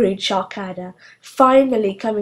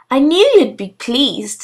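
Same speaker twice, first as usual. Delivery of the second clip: gushing witch; 5 semitones higher, 7 dB louder than usual. Acted. Gushing witch fishing for praise.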